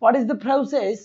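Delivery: very slow, careful English sentence; teacher reading slowly for the class; slow demo. Shown as a demonstration. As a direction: spell the sentence out word by word. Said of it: "Process, not process".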